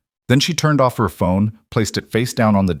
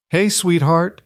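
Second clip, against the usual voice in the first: higher, lilting comforting voice; tender greeting; 9 semitones higher, slower than usual. Acted. Woman greets the crying girl, tender. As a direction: greet a hurt child gently, pitch lifted.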